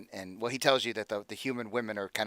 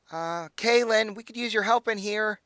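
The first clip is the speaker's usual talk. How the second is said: higher, louder, slow call for help; 11 semitones higher, 6 dB louder than usual. Acted. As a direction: call out to Kalen in the next room, slow and higher. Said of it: "she kind of begins to yell".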